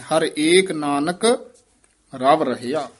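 ਹਰ ਏਕ held briefly, then a short stop after Nanak; slight pause after Nanak. Shown as a demonstration. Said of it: "ਫਿਰ ਨਾਨਕ ਤੇ ਠਮਕ ਲਾ ਦੇਣੀ ਹੈ".

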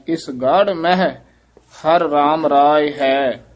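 ਗੜ said with a heavy ੜ; teacher's weighty model of ਗੜ. Shown as a demonstration. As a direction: give ਗੜ weight, then a short break. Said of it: "ਭਾਰਾ ਉਚਾਰਨ ਕਰਨਾ ਹੈ".

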